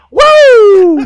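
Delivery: high whooping cheer; frat bro. Real, not acted. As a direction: whoop it up like at a party. Hyping the toast.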